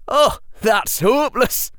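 high, bright teasing twin; playful schoolboy teasing; cheerful twin voice. Acted. Fred voiced in story.

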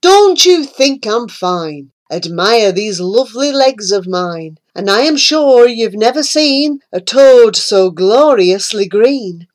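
a hint of a vain toad; lightly voiced boastful toad. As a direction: show off proudly. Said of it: "The toad said".

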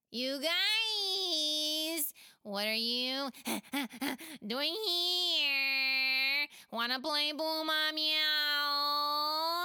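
put-on high, loud giggly kid voice; a bubbly kid wanting to play; eager child. Pela asks friends to play a game, eager and giggling. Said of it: "Pela said eagerly".

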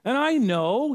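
impassioned, high-pitched acted protest; Paul. Apostle answers weeping friends that he is ready to die, impassioned. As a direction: plead with feeling, pitched well up. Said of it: "And Paul's gonna say".

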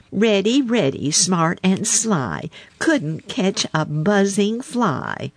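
high chanted teasing rhyme; taunting. A narrator's reading. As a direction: draw out the rhyme, high and needling. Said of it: "taunted Peter".

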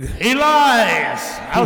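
shouting. Acted. Shouted exit line.

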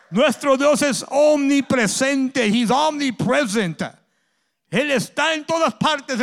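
loud, driving sermon delivery; full-force preaching. Acted. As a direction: preach it out to the congregation. Preacher climaxing on omnipresence. (predicando a todo pulmón)

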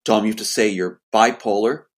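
imitating a cold, firm demand. Sister phoning her brother after two years, cold voice. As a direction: press it coldly on the listener. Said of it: "She keeps a cold voice".

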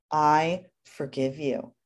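slow and gentle, each word given weight; slow tender forgiveness. Shown as a demonstration. Mother forgiving her crying son, slow and gentle. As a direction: say it slowly, like a real pardon. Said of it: "It's forgiveness".

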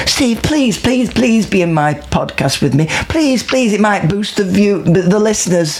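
hammed-up begging, pitched high; imitating an over-keen pleader; mock pleading. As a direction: beg like a fidgety, desperate lad. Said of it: "a fidgety lad, Scouse lad".

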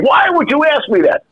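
high mock yell at me; a friend's mock outraged scream; retold yell. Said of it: "He started to yell at me and scream".

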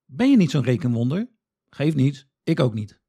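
ordinary delivery

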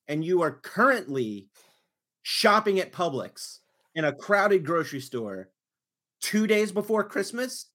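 indignant retelling, hard emphatic start; livid. Retold or imitated. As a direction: spell it out in outraged disbelief. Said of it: "because I was livid".

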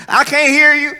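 high, loud, rude shout from the pews; rude loud heckle. Retold or imitated. Rude church elder heckling the reciting child, loud shout. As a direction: bark it rudely at the kid. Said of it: "Oh, they were so rude".

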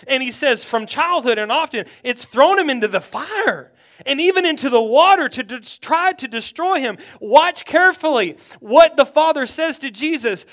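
urgent, driving sermon delivery; forceful preaching. Real, not acted. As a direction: press the congregation with conviction.

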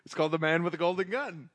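laughing through the words. Real, not acted. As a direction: chuckle while saying it. Laughing at his own joke.

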